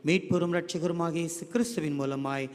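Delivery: earnest, flowing closing prayer to the Lord. Real, not acted. Pastor praying for the children after the hymn, earnest prayer voice.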